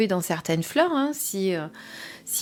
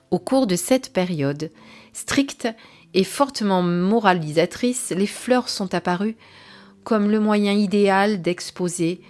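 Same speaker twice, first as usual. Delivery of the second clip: evenly paced reading, phrase by phrase; guidebook read-aloud. Acted. Reviewer reading the flower-language introduction to viewers, guidebook read-aloud. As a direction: read the page out carefully, pausing between phrases.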